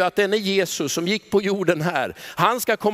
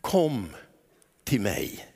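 gentle invitation; 9 semitones lower, 5 dB quieter, much slower than usual. Acted. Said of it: "Jesus säger så tydligt han kan".

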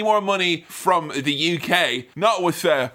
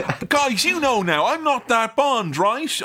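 mock aside to camera; 7 semitones higher than usual. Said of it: "shrug to the camera and go".

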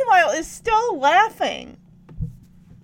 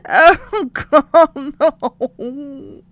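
mock sobbing; 8 dB louder, much slower than usual. Imitating Danny sobbing over car.

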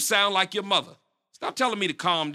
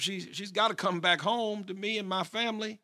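worried mother; 4 semitones lower, 4 dB quieter than usual. Acted. Worried parent on phone.

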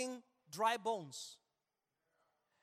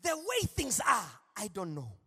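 put-on African accent; 3 dB louder than usual. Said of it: "I'm doing it in the African accent".

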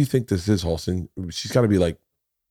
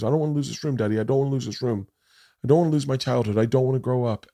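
put-on raised, pleading child's lament; imitating tearful child; 4 semitones higher, much faster than usual. Dad retelling daughter begging to keep her childhood, mild tearful pleading. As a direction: lightly imitate a girl starting to cry. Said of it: "she starts fucking crying".

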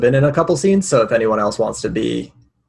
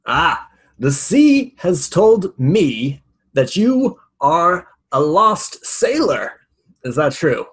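put-on slow, raised mystic old sailor; gruff old fisherman; 6 semitones higher, slower than usual. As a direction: intone it like a seer. Merchant character speaks in character.

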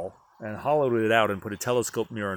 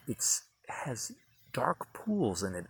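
whispered; 7 dB quieter, slower than usual. Real, not acted. Hushed description at eyepiece.

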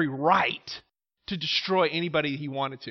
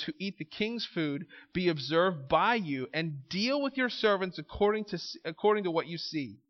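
scripture reading; 2 semitones lower, 5 dB quieter than usual. Acted. Preacher reading Daniel's request to the congregation. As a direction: read the verse softly and steadily.

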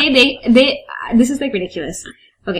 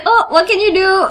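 higher, airy mock resignation; mock passive shrug; 9 semitones higher than usual. Mocking the passive heroine to a co-host, airy resignation. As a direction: imitate someone breezily giving in. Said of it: "She's very passive about this".

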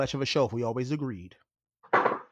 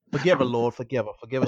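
praying for patience through teeth. Acted. Mock prayer about cohost.

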